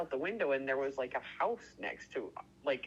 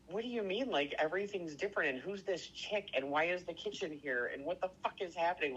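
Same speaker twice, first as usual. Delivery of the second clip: higher-pitched, mildly panicked questioning; retold freaking out; 4 semitones higher than usual. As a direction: retell a bewildered freak-out without raising the volume. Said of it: "I was freaking out".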